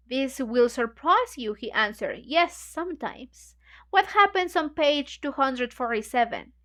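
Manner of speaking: reading a novel aloud to the group; measured, even reading voice; story narration. A narrator's reading. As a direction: read the passage steadily, like a book club reader.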